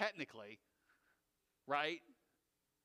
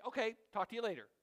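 quick, casual sign-off, like hanging up with a friend; breezy goodbye; 2 semitones higher, 4 dB louder, much faster than usual. Shown as a demonstration. Pastor shows a relaxed way to end a prayer, breezy. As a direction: toss it off lightly and fast. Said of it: "you can say".

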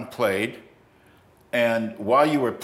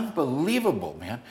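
amazed; 3 dB quieter than usual. Retold or imitated. Guitarist raving to a friend about another player, amazed. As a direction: imitate a mildly awestruck guy.

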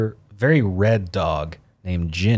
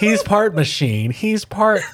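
higher, slow and loud, breaking into laughter; mock dramatic narrator, laughing; mock trailer voice; 12 semitones higher, 3 dB louder, slower than usual. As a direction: ham up the movie line. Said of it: "cadence of, like, half car, half man".

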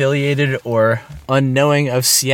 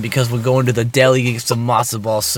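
put-on Brooklyn accent; faster than usual. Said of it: "I'm almost gonna veer into a New York accent".

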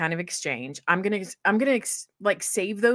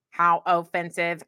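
robot voice; 3 semitones lower, slower than usual. Shown as a demonstration. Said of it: "you told me to read like a robot".

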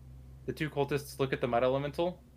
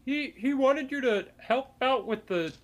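much higher, louder squeaky cultist Jerry; 12 semitones higher, 5 dB louder than usual. Acted. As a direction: pitch Jerry way up, loud and nasal-silly. DM voicing Jerry in dialogue.

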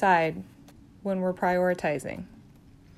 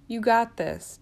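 calmer reassurance; 2 semitones higher, slower than usual. Acted. Encouraging new grad nurse.

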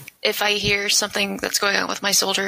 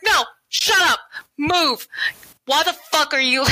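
retold yelling; 7 semitones higher than usual. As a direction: bark it like a drill sergeant losing it. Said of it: "And I was like".

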